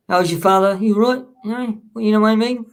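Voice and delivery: badly faked British patter; terrible British accent. Shown as a demonstration. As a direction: have a poor go at a British accent. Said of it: "see, it's terrible".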